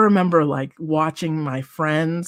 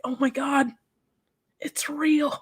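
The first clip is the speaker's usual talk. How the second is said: soft, higher whisper of disbelief; awed whisper; 9 semitones higher, 5 dB quieter than usual. Retold or imitated. Wrestler realizing her dream came true, whispering in awe. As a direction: breathe it out in wonder.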